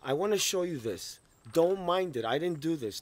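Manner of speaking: loud, firm insistence; defiant declaration. Real, not acted. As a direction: stand your ground out loud.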